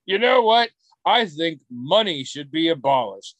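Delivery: a bold opinion, pitched high at the start; hammed-up confident pronouncement; mock bold declaration. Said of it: "I'm not comfortable saying".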